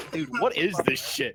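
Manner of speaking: hushed whisper of disbelief. Real, not acted. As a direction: whisper it in shock. Player reacts to bad roll.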